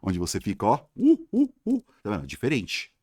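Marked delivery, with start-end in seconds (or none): 1.0-1.8 high "uh, uh, uh" noises; short mock hoots, very high-pitched; playful imitation of noises from a locked cell; imitated hooting. Imitates someone shut in a cell.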